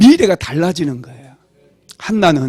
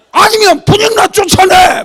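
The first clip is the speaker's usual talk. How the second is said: much higher, loud shrieked demand; mock shout; 13 semitones higher, 9 dB louder than usual. Wife shouting at her husband to throw the rival out, shrill yell. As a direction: yell it like a wife at wit's end. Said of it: "막 이러면서".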